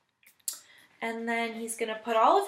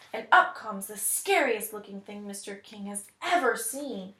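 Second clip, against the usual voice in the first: story narration. Acted. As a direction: read it like a picture book to children. Teacher reads story aloud.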